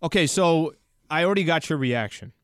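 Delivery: winded after a sprint down the hallway; out of breath. Real, not acted. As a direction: talk out of breath, gasping between phrases. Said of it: "I'm out of breath 'cause I went".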